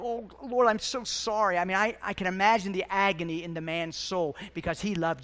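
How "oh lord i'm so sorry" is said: mildly acted remorseful cry, pitched up. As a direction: imitate Peter's pleading apology, lightly. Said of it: "listen as he cried out".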